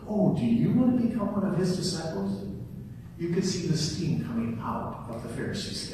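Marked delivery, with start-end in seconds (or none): 0.1-2.4 lightly mocking question; preacher replaying a sarcastic retort. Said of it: "that very sarcastic line".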